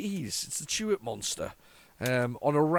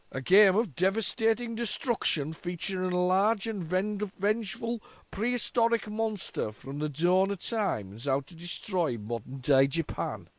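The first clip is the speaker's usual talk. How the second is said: a wandering mock Yorkshire accent, slower; slower blurb read in a faltering Yorkshire accent; 4 semitones higher than usual. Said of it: "where it went with me accent there".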